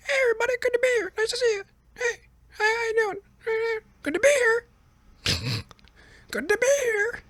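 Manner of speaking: very high cartoon squeak, greeting the empty room; a high-pitched South Park parody of Biden; squeaky cartoon Joe Biden saying hello to nobody; South Park Biden mockery. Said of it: "Trump just walked out, ready to".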